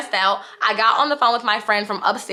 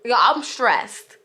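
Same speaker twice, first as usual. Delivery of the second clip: slow, drawn-out stressed confession; real stress, stretched out slowly; 3 semitones higher, much slower than usual. Real, not acted. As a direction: let the stress weigh on each word, slowly. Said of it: "excitement has unfortunately been now turned into stress".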